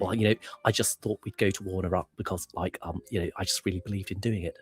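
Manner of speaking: a hint of halting Blair; soft, hesitant earnest politician; lightly imitating Tony Blair's halting speech; Tony Blair impression. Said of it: "halting kind of speech".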